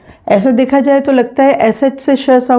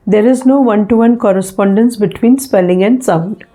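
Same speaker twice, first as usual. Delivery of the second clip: slow dictated rule; much slower than usual. Shown as a demonstration. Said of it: "teacher stating rule".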